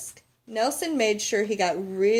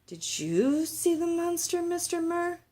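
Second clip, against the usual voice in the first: put-on a child's higher voice, curious; young girl asking eagerly; lightly voiced little girl; 9 semitones higher than usual. Child Lola asks the neighbour.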